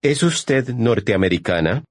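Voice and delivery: ordinary talk, nothing marked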